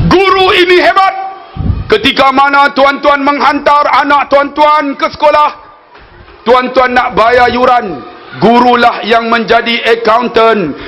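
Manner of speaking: slow, measured sermon delivery; khutbah oratory. Acted. Preacher re-enacting his Teachers' Day khutbah, formal oratory. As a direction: declaim it like a formal khutbah, drawing out the phrases.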